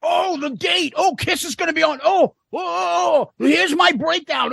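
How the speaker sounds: high, gushing fan imitation; mocking excited fans. Host mocking relatives hyping the band's news online, high and gushing. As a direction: parody the overeager relatives. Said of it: "telling me".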